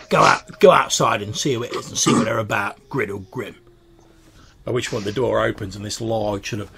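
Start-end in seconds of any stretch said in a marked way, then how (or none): 0.1-3.6 loud, fast bossy shout; shouted order. Acted. Creature yells at Griddlegrim to go outside, loud and fast.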